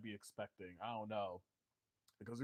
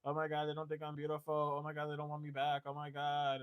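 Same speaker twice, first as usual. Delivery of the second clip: whiny pity-party voice, high and loud at first, then easing off; hammed-up moping over spilled milk; mock self-pitying whine; 4 semitones higher, 7 dB louder than usual. Tarot reader mocking the sad Five of Cups figure, whiny self-pity. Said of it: "this person is looking down and is like".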